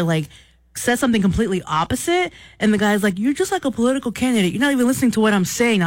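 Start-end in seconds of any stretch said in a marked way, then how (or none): 3.2-5.8 retold indignation. Caller argues with sports broadcaster.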